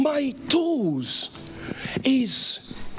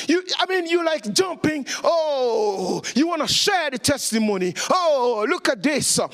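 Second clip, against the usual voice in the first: excited shouting; 3 semitones higher than usual. Acted. Preacher acting excited believer.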